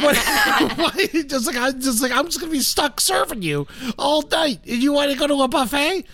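high-pitched incredulous complaint; exasperated rant. Retold or imitated. Comedian arguing about serving dad at the buffet, exasperated rant. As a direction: protest in disbelief, pitch held high.

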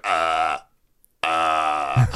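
mock drunken sobs; tearless drunk sob. Groom crying over his missing fiancée, mock dry sobs. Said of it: "tearless drunk sob. He's just like".

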